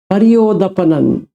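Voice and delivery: परियोदपनन repeated slowly, syllable by syllable. Shown as a demonstration. Teacher repeating the Pali word for the student, slowly. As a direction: spell out परियोदपनन slowly so it sinks in.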